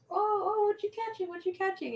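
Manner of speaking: put-on high, excited Hispanic-accented questioning; high-pitched imitation of a Hispanic accent. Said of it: "In their accent, which I love their accent".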